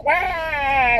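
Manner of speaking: high, short imitation of a crying baby; a quick playful baby wah; imitating a hungry baby's cry; mock baby wail. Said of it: "He's gonna start crying".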